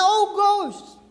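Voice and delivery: high mock cry of fright at a ghost; frightened cry. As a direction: gasp it out like seeing a ghost. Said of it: "akala na si Jesus multo". (pakunwaring takot na sigaw)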